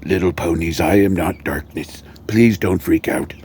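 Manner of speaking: lightly voiced vampire soothing horses; a hint of mock-solemn reassurance; calming vampire. Vampire calming flipping-out horses, lightly put-on soothing voice. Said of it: "he needs to calm these horses down".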